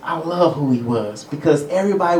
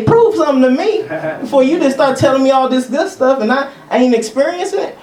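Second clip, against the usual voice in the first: mock demanding; 9 semitones higher than usual. Voicing the doubting show-me believer.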